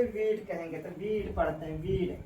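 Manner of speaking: वीड said as one syllable, weed; model pronunciation. Shown as a demonstration. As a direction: say वीड, not वी वुड. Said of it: "वी वुड नहीं बोलेंगे". (वीड का उच्चारण साफ़ दिखाओ)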